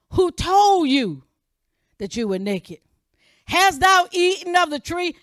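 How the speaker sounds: God questioning Adam loudly; stern question. Acted. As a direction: press the question home.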